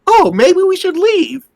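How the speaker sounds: mock calm. Player mimics the woman getting up calmly, mock calm. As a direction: imitate someone absurdly unbothered. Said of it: "so calmly".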